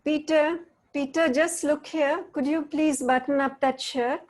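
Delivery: teacher barely hiding annoyance; controlling demand. Shown as a demonstration. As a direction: demand his attention, words polite but domineering. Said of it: "What's Peter's experience of my tone?".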